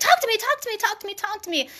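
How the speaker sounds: put-on insistent, demanding, high yell, repeated over and over. Retelling a spirit's demand during meditation, imitating a pushy yell. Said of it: "literally what she was like".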